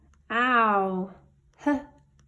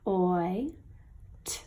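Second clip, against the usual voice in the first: whisper; 3 semitones lower, 5 dB quieter than usual. Shown as a demonstration. Sounding out letters softly.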